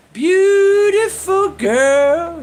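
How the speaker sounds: mock compliment.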